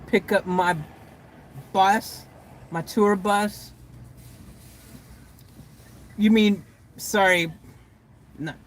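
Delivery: deliberately composed, halting question; straight-faced. Pretend. Asking Victor about the tour bus pickup, keeping straight-faced. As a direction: feign nonchalance, pausing between phrases. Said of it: "I can't even say it with a straight face".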